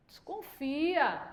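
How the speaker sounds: very slow, soft warning in imitation; mock reproof. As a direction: draw the word out reprovingly. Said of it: "ele é desse jeito".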